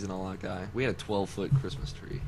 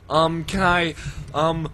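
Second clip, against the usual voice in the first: high, loud flustered ordering voice; anxious mom ordering; 11 semitones higher, 13 dB louder than usual. Retold or imitated. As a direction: stammer through the order in a panic. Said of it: "she's just like".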